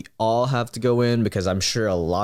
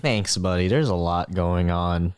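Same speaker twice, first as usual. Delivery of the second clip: lower, weary thanks; low voice, thanking a friend; character thanks; 5 semitones lower than usual. Acted. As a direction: drop the voice low and tired.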